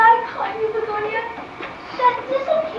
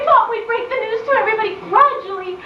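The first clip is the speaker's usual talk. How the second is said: crying confession. Acted. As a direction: confess it through tears. Tearful wedding confession.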